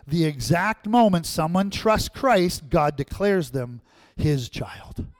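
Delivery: fuller voice, building to a shout on the last line; preacher's ringing declaration; emphatic repeat. Real, not acted. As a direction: hammer it home the second time. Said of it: "Did you hear that?".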